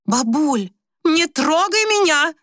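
high, irritated brush-off. Acted. Grandmother brushing off her granddaughter, irritated. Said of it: "отмахнулась от неё".

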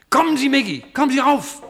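high, loud call upward; urgent calling out. Acted. Professor calling Maggie up out of the bunker, loud and high. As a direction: call her up, fast and urgent.

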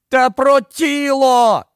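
high, slow desperate wail; wailing yell. A narrator's reading. Ed wailing at the neighbours about the body. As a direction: cry it out, pleading to be believed. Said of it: "заволав Ед".

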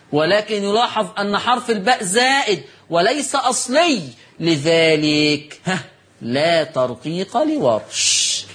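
slow, measured Classical Arabic read-aloud; formal commentary reading. Real, not acted. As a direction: read the note out deliberately, stretching the long vowels. Reads the written commentary aloud. (قراءة متأنية بالفصحى)

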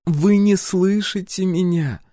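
frustrated disappointment; disappointed. A narrator's reading. Empress disappointed the hero won't listen. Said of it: "разочарованно покачала головой она".

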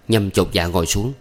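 ordinary delivery, nothing marked

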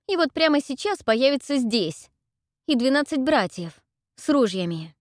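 high loud babbling; girl babbling nonsense at the brute, high and loud; frantic ranting. Acted. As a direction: rant wildly, in pain.

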